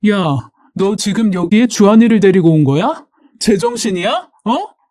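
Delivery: understated scolding, rising to a sharp question; mildly acted outrage, demanding an answer; angry confrontation. Furious woman confronting her sister-in-law, mild angry scolding. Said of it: "때릴 기세로 노려보며 소리를 질렀어요".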